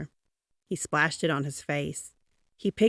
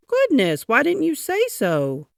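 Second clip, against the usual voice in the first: startled concern; 9 semitones higher, 7 dB louder than usual. A narrator's reading. Grocer's daughter missing.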